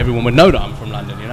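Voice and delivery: full London English accent; London accent, said plainly. Shown as a demonstration. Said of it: "if I start talking like this".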